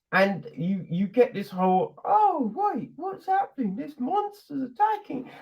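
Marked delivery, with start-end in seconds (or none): 2.0-5.3 high-pitched pretend alarm; hammed-up high panic; mock panic. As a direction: act out a startled soldier, much higher. Voicing panicked characters under attack.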